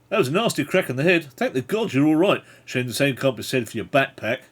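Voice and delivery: loud, animated character voice; passenger's voice. Acted. Passenger addresses the injured traveller in the boat, loud character voice. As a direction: speak up heartily as a fellow passenger.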